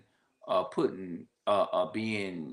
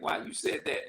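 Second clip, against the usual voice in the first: mock hurt whine. Hurt reply to family critique.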